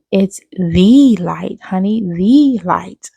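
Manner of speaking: slow, weighty, lightly voiced old lady; imitating a wise old lady. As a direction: lean on each word like revealing a secret. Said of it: "She said".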